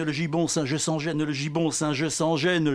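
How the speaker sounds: chanted refrain, gibon and gêne buzzing; refrain déclamé. Acted. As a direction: repeat it like a chorus line. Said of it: "Je vais vous faire un poème sonore". (refrain scandé, « gibon » et « gêne » appuyés)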